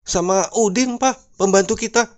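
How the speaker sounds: high, mock-tearful voice; plaintive high pitch, lightly acted weeping. Wife phoning husband at the office, mock tearful. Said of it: "Sambil menangis".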